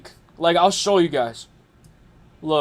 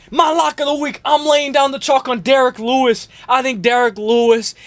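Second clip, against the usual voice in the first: hyped announcer; 6 semitones higher than usual. Acted. Announcing his weekly pick.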